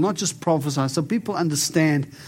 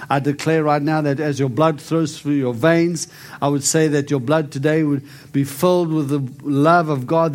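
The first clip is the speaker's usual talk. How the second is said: healing declaration. Acted. Prays healing over the lady.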